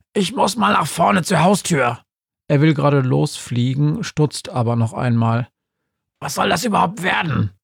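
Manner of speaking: high ghostly little voice; Günther's voice. Acted. Günther warnt Betty, hohe Geisterstimme.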